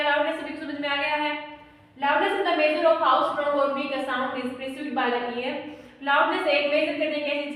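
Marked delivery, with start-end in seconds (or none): 2.0-5.6 slow, deliberate dictation for notes. Real, not acted. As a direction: read it out slowly so they can write. Dictating definition to students. (धीमे-धीमे लिखवाना)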